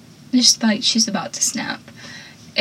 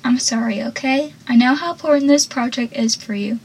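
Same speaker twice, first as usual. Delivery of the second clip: calm apology. Retold or imitated. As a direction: soothe with an understated apology. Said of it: "Pacey calmly then says".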